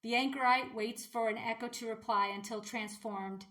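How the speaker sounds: measured, even poetry recital; poem reading. Real, not acted. Vlogger reading a strange poem to viewers, measured recital. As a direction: read it as verse, pausing between lines.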